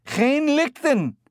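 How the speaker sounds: slow, high, loud call in Dutch. A narrator's reading. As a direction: call up loudly to an ape. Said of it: "The heavy-set man said loudly".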